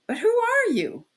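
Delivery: high, uneasy cry; a nervous shout. A narrator's reading. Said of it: "the workman cried, uneasy".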